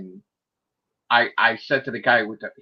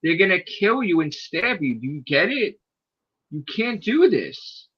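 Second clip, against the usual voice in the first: urgent warning; 4 semitones higher than usual. Retold or imitated. Retold urgent warning, acted.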